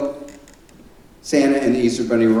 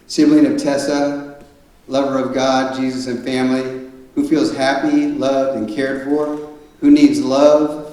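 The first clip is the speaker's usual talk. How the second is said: put-on slow, fond reading of a child's bio; reading aloud; slower than usual. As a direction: read it out gently, word by word. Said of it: "It says".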